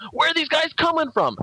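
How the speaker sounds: high-pitched mock bewilderment; confused. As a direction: cry it out like a baffled soldier. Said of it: "they keep getting confused".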